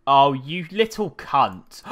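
exasperated curse. Real, not acted. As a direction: spit the insult out long. NPC dodges him.

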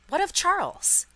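loud, high, urgent question; alarmed question. A narrator's reading. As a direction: demand news in alarm. Lorry's alarmed reply to Lucy.

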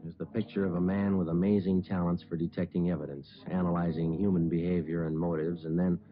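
steady, matter-of-fact detective narration; story narration. A narrator's reading. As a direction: report the case like a police log.

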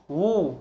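slow "وو" with a long rounded u, "wu"; waw with damma. Shown as a demonstration. Teacher showing the damma on waw, "وو" as long "wu". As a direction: sound out "وو" as a drawn-out "wu". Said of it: "واو ضمة".

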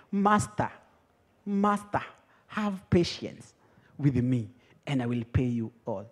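soft, halting plea of a servant; hushed, submissive begging; humble pleading. Acted. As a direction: beg the master meekly, with pauses. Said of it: "Sasa mnajua venye tunanyenyekeanga".

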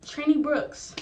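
mock roll call; roll call shout. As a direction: call the name out like an instructor. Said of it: "he's gonna be like".

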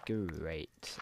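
a low, drawn-out "Great", meant sincerely; non-sarcastic great. Real, not acted. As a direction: draw out "Great" without sarcasm. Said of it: "And that's not a sarsa".

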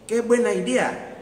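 high, loud delighted cry; clapping butterflies. Acted. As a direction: cheer it gleefully. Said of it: "aplauden las mariposas".

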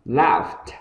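LAUGHED ending in F then T. Shown as a demonstration. Teacher models laughed for learners, F-T ending. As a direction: sound both F and T closing "laughed". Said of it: "âm F âm thi".

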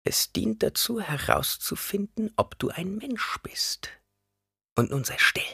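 put-on measured old woman's voice, pitched high; stern old woman. A narrator's reading. Old woman explains the test.

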